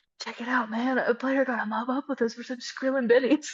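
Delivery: put-on whisper. Quoting a movie line said secretly in a break room: imitating a character whispering. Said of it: "and he's whispering".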